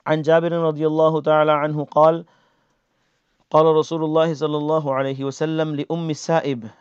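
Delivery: rapid, even reading of the Arabic text; brisk recital of the hadith to the class; quick Arabic hadith recitation. Acted. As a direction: rattle off the narration quickly in Arabic.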